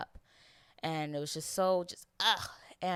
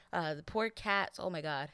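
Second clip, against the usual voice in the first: near tears; 2 semitones higher than usual. Real, not acted. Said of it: "I'm not crying".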